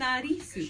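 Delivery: "Anarisu" with tapped r for l; Japanese-style pronunciation. Shown as a demonstration. Friend gives her own Japanese name, tapped r in "Anarisu". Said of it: "'cause they don't have L".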